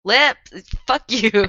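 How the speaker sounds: mock-angry shout. Real, not acted. Teased friend shouts back.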